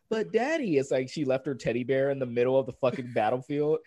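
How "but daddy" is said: put-on higher child's voice; imitating a whiny little girl; little daughter. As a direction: plead like a small kid, lightly put on. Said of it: "his daughter's like".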